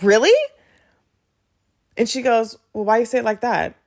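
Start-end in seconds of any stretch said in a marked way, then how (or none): 0.0-0.3 high, loud, rising surprise; disbelieving reaction. Retold or imitated. Customer to tiny nail tech who did the work, disbelieving. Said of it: "the reason why I reacted like that". 2.7-3.8 taken aback. Retold or imitated. Nail tech challenges her reaction.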